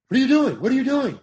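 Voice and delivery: high, loud, indignant director; John Huston's outburst. Retold or imitated. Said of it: "You know that voice".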